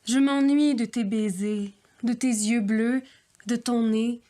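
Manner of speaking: earnest, wistful love poem reading; measured poetic recital with pauses; poem recitation. Acted. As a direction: recite a lovelorn poem, phrase by phrase.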